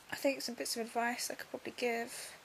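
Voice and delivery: stuffy nose, breathing through mouth; blocked nose. Real, not acted. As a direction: talk with a blocked nose after surgery. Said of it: "I can breathe through my, um, breathe through my mouth".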